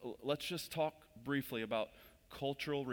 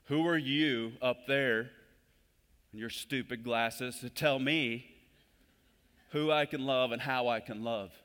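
louder, slow mock outrage; mock indignant listener; 6 dB louder than usual. Newcomer indignantly challenging the preacher from the pews, mock outrage. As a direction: play a resentful visitor scolding the preacher. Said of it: "some of you may have been like".

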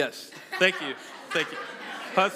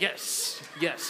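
gospel praise whisper; 4 semitones lower than usual. Retold or imitated. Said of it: "in the gospel church".

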